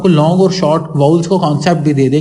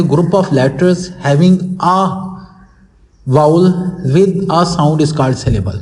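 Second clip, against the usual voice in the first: slow, spaced-out definition for pupils; dictating the definition slowly; much slower than usual. Shown as a demonstration. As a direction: read it out slowly, word by word, as if to a class. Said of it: "उसको मैं सिर्फ repeat कर देता हूँ". (धीरे धीरे परिभाषा बोलते हुए)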